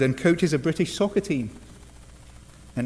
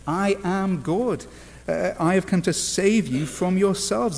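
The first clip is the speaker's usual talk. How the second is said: slow, higher-pitched proclamation; Jesus, emphatic; 4 semitones higher, slower than usual. Retold or imitated. Preacher voices Jesus's claim to save, emphatic proclamation. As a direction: declare it slowly, with weight on each word.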